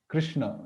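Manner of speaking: "Krishna" with a palatal sh, tongue on the palate; common pronunciation. Shown as a demonstration. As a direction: say "Krishna" with an ordinary English-like sh. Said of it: "what we generally pronounce".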